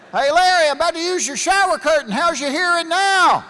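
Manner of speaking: high, loud threat; threatening shout. Retold or imitated. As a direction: yell the threat to get his attention. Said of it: "most of my friends".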